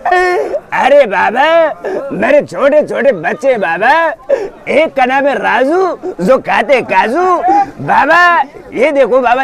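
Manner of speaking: comic whiny baba voice; hint of Johnny Lever clowning; Johnny Lever impression. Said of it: "आ जाते हैं जोनी लीवर जी".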